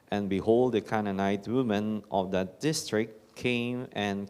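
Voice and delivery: solemn, measured scripture proclamation; gospel reading. Acted.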